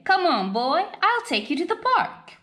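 high, coaxing sing-song to a pet; pet-talk voice. Acted. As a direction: coax him along like a puppy. Dog coaxes his human along.

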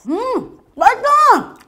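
chewing noodles while talking; talking between bites; mouth full. Real, not acted. Seen 0: Woman just slurped noodles; pursed, working lips while exclaiming.

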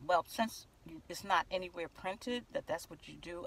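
softly, evenly, no argument; calm and quiet. Retold or imitated. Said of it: "I talk very calmly".

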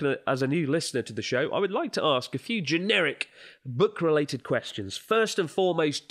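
lifted, deliberate reading voice; letter read-out. Acted. Host reading a listener's letter on air, presentational reading. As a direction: read the listener's questions out clearly.

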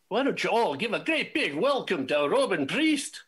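rally the crowd to cheer her on; big announcer welcome. Real, not acted. MC introducing Robin Priest to the audience, booming announcer call.

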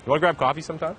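mouth full. Real, not acted. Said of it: "Are you just drinking mouthwash?".

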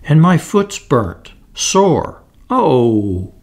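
put-on mild crying fairy child; tearful whimper. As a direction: whimper over a burnt foot. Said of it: "sobbed the fairy child".

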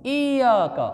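इय्याका with doubled y; correct shadda. Shown as a demonstration. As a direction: say इय्याका as iy-yaa-ka. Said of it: "ये के ऊपर शद पढ़ना ज़रूरी है". (इय्याका, ये पर ज़ोर से शद)

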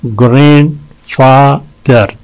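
"ग्रैंडफादर" slowly, in three separate beats; syllable breakdown. Shown as a demonstration. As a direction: pause between syllables of "ग्रैंडफादर". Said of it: "तीन हैं इसमें". ("ग्रैंडफादर" तीन हिस्सों में अलग-अलग)

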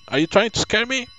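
defiant phone threat to Frank; angry threat. Acted. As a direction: snap back at him, rattled and furious.

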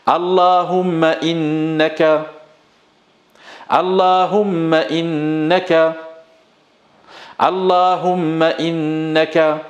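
teacher drilling Allahumma innaka line by line; call and repeat drill. Shown as a demonstration. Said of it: "Allez avec moi".

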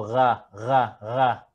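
ga with guttural French R. Shown as a demonstration. Teacher comparing ghain to French R. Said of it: "la R de los franceses".

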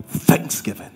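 breathy whispered single word; soft punchline whisper; whispered answer. Real, not acted. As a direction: drop to a hush for the answer. Answer to rhetorical question.

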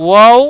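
ওয়াও drawn out, starting from rounded lips; rounded-lip waw. Shown as a demonstration. Teacher explains the letter waw, long rounded ওয়াও. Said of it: "ঠোঁট গোল হবে".

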